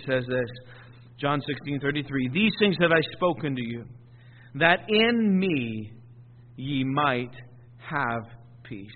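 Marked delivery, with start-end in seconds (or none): 2.3-8.9 slow, drawn-out reading with pauses; slow scripture reading. Acted. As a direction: let each word land slowly.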